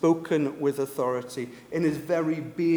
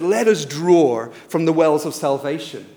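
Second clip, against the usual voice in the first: calling out; 8 dB louder than usual. Retold or imitated. Priest calling to the temple crowds, calling out. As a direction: call it out to a whole crowd. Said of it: "they would call out".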